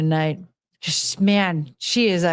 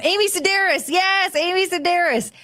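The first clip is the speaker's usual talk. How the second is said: high tone; 9 semitones higher than usual. Retold or imitated. Naming the actress, still high-pitched. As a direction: still pitched well up, lingering in the voice.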